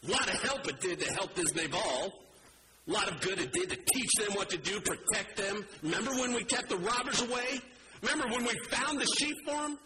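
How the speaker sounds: indignant, high-pitched grumbling on the warpath; worked-up, aggrieved tirade; livid rant. Acted. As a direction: rant indignantly, pitch climbing as the grievances pile up. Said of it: "you're on a war path".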